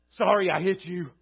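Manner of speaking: words said right but without remorse; a kid going through the motions of sorry; mild, mechanical apology; dutiful apology. Retold or imitated. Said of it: "He just said the words".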